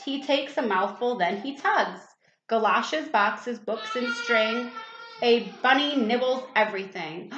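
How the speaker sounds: put-on sing-song rhyming poem read to a child; poem recital. A narrator's reading. Parent reading a rhyme aloud at bedtime, sing-song. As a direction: recite the bunny poem with a bouncy lilt.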